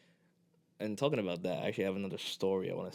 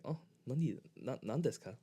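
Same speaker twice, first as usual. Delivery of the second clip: confused Japanese staff; 5 semitones higher than usual. Retold or imitated. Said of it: "they're like".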